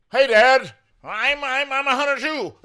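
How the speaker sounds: high, loud goofy voice mocking the actor; mock wimpy son voice. Mocking the young actor's line to Tiff, high and silly. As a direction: squeak it out like a clueless kid. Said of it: "this guy is like".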